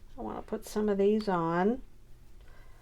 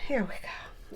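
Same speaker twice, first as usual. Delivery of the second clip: whispered resolve; 5 dB quieter than usual. Real, not acted. Bracing herself for the task.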